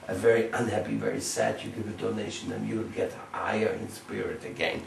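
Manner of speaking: ordinary talk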